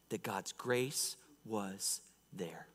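slow, near-whispered preaching; hushed reverence. Real, not acted. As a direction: drop to a slow whisper in awe. Hushed close to the point.

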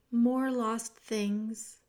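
sad lost princess. Acted.

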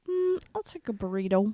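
whispered, shy order; a shy hushed order; timid whisper. Shown as a demonstration. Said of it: "quietly and timidly".

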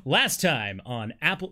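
slow, booming TV recap announcer; lightly voiced trailer narrator. Shown as a demonstration. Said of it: "All right, announcer voice".

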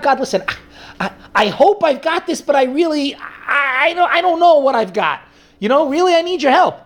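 heartfelt, straining appeal for help; earnest plea. Retold or imitated. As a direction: beg God with real effort. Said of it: "in a strenuous, an effortful fashion".

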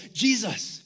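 mildly gushing, imitating excited bragging; lightly acted awestruck boast. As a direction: show it off to the teacher, playfully acted. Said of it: "they were just bragging".

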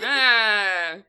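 loud groaning camel bellow; camel noise. Acted. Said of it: "It goes".

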